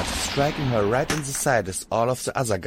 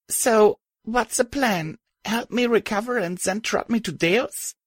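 much higher, rasping weak voice; 13 semitones higher than usual. Acted. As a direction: rasp it out, barely able. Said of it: "I rasped".

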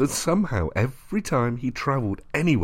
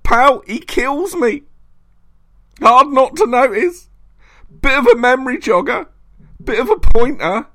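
very high, loud enraged roar; furious bellow; 14 semitones higher, 7 dB louder than usual. A narrator's reading. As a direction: rant in mounting fury. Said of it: "he bellowed".

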